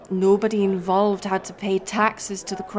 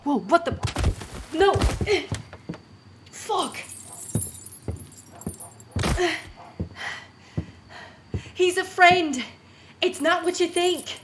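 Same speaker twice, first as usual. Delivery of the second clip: panicked pleading; 9 semitones higher than usual. Acted. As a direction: blurt it out, cornered and scared. Caught at arrest, panicking.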